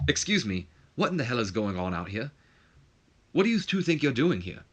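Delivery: lightly attempted British accent; horrible British accent. Commissioner confronts two men arguing with security, horrible British accent. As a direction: put on a bad British accent. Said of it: "this horrible British accent".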